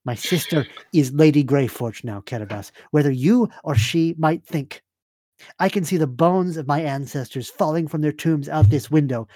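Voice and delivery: lightly voiced stern noblewoman; formal, firm in-character correction; Serafina. Game master voices Serafina.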